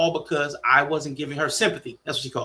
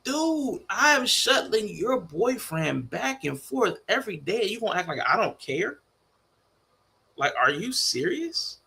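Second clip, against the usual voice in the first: high, exasperated retort at his sister; a pitched-up rant at her; exasperated outburst; 6 semitones higher, slower than usual. Retold or imitated. Retelling argument with sister.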